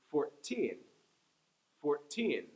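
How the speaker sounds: put-on fourteen with the teen stressed; four-TEEN, second syllable strong. Shown as a demonstration. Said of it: "Let's try it again with the number fourteen".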